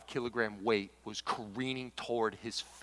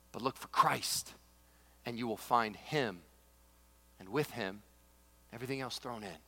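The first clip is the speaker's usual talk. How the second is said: solemn reading; 4 dB louder than usual. Acted. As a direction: read it like scripture, softening toward the end. Reading Lewis passage aloud.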